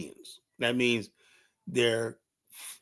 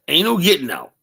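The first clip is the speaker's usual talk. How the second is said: emphatic; 6 semitones higher, 6 dB louder than usual. Real, not acted. Repeated emphatic declaration.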